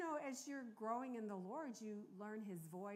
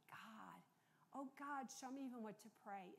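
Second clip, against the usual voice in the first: hushed, breathy plea to God; whispered prayer; 5 dB quieter than usual. Retold or imitated. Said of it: "I'm crying out saying".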